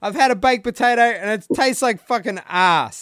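high-pitched exasperated rant; fired-up complaint. Real, not acted. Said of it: "This is Rant, Rant McCubbin".

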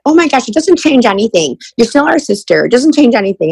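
high, mildly emphatic mock reassurance; retold reassurance.

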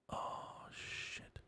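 breathless mock-panicked whisper; whispered oh shit. Podcaster whispering to himself after a slip, mock panic. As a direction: hush it like you just got caught.

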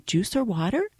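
softly offered drink question; low voice. Retold or imitated. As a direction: ask quietly so sleepers stay asleep. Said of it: "I say it low to not to wake anybody up".

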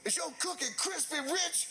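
high-pitched, incredulous questioning; acted interrogation. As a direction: imitate an affronted man demanding an answer. Retold interrogation about the cookie.

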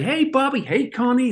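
high, sing-song exchange of hellos; mock cheery greeting. Connie and the impersonator greet each other, high mock voice. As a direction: toss off two breezy hellos up high. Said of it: "It's like".

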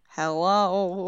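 feeble put-on British accent; badly faked British accent, on the spot; tentative go at a British accent; nervous accent attempt. Shown as a demonstration. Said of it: "I get so nervous and I just go".

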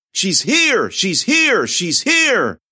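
high, loud sing-song call; eerie announcing call. A narrator's reading. Possessed girl betraying the heroine, a loud eerie cry. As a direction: cry out like a chanting crowd. Crowd surging, chanting.

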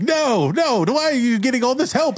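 high-pitched, fast protest; squealed, indignant objection; whining Pork. Acted. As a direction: complain up high like a wronged sibling. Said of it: "Pork is like".

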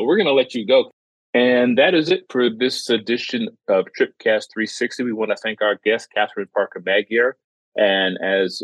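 host signing off the show, upbeat; podcast outro. Acted. Host thanking the guest and signing off, announcer voice. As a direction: wrap it up like a radio announcer.

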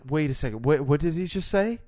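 baffled, rising to a high question; mock bafflement. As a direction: play a trainee who missed everything. Acts a baffled trainee surgeon.

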